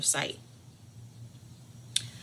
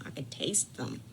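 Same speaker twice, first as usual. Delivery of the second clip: lower dreamy repeat; 5 semitones lower, 5 dB quieter than usual. Retold or imitated.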